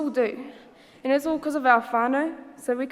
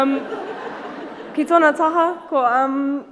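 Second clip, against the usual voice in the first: laughing through words; 3 semitones higher, 5 dB louder, slower than usual. Real, not acted. Nervous laugh mid-speech.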